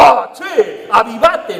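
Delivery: loud, hammed-up wake-up call; mock exasperated scolding. Scolding the other person to wise up, loudly. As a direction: scold someone for not getting it. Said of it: "nos miramos y decimos".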